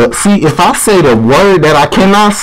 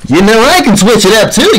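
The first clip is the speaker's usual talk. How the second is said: lilting, higher take on the line; switched-up voice; 3 semitones higher than usual. Shown as a demonstration. Showing the other caller they can switch it up, higher voice. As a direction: swing the pitch up playfully. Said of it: "I can switch it up a lot".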